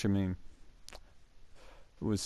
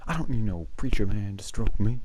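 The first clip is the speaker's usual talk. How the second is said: mildly raised mock yell; retold outburst; 6 dB louder than usual. Imitating teacher yelling mid-lesson, mock outburst. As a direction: imitate a sudden yell, only half as loud. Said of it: "yells out, middle of this lesson".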